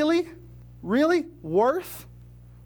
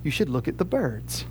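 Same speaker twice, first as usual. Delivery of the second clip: smiling; 8 semitones lower, 5 dB quieter than usual. Acted. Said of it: "And he smiles and says".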